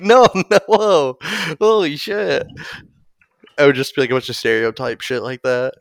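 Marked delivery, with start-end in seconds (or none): 0.0-2.5 alarmed outburst. Acted. Trainer reacting in acted scene.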